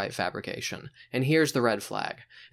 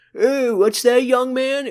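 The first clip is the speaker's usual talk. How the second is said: put-on very high, very loud, shrill old man voice; 12 semitones higher, 8 dB louder than usual. Calling on Rupert next, the speaker breaks into an old man voice. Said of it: "That's my old man falling out of an airplane impression".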